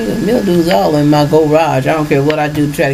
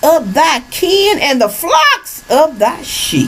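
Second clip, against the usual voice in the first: preaching scripture; 2 semitones higher, slower than usual. Acted. Reads the curses aloud.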